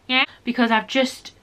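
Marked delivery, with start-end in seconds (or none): 0.1-0.2 high, loud repeated squawks of agreement; mock penguin yeses, pitched up and punchy; penguin-like agreeing. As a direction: agree like an over-eager penguin. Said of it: "agreeing like a bloody penguin".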